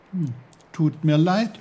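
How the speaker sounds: lifted apology, rising at the end; Peter, sympathetic. A narrator's reading. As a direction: say sorry in a young lifted voice.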